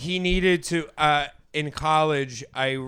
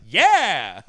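a singer's yeah; 3 semitones higher, 9 dB louder than usual. Retold or imitated. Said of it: "Pat Boone going like".

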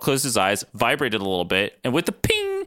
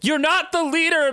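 yelled. Acted. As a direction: yell it out, outraged. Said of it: "Maddie yelled".

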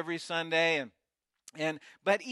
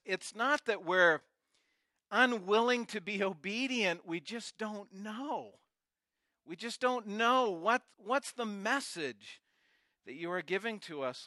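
passionate preaching; 2 semitones higher than usual. Acted. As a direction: build the sermon toward an earnest cry. Preaching builds to pleading prayer.

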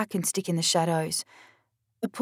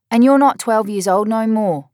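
loud, higher scolding; yelling back; 4 semitones higher, 9 dB louder than usual. Acted. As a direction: shout her down. Sister yells back in quarrel.

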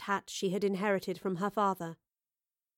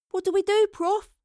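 much higher and louder alarmed plea; frightened cry; 11 semitones higher, 5 dB louder than usual. Acted. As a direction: shout over the crackling danger. Astrid frightened by exploding light.

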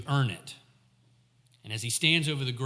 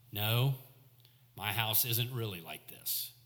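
rueful admission; 4 semitones lower, 7 dB quieter than usual. Retold or imitated. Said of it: "turned that statement into a negative".

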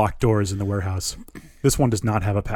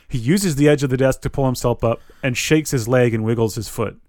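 ordinary talk, nothing marked

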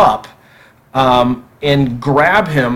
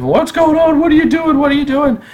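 retold screaming; 12 semitones higher than usual. Pregnant wife screaming at the intruder, high retold shriek. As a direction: shriek it up high like a frightened wife woken at night. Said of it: "she's yelling and, you know, screaming".

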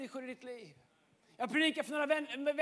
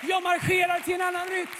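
louder, ringing proclamation; forceful declaration; 2 semitones higher, 5 dB louder than usual. Acted. Preacher voicing Jesus's declaration to the church, loud. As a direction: proclaim it like a battle cry.

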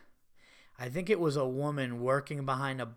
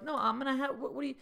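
much higher, trailing-off bewildered owner; true Italian; 9 semitones higher, 4 dB quieter, much faster than usual. Retold or imitated. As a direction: sputter like a confused Italian. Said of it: "like a true Italian".

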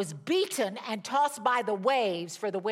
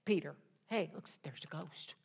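casual, much softer "hey Peter, look, there's a ghost"; a calm, offhand mock of the disciples; 5 semitones lower, 5 dB quieter than usual. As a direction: play it down as if it's no big deal. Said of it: "They didn't go".

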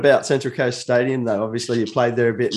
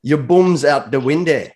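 slow, loud stab at a Scottish accent; attempted Scottish accent; 5 dB louder than usual. Shown as a demonstration. Host tests another saying on the Scot, attempted Scottish accent. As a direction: announce the saying in would-be Scottish. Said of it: "How about this one?".

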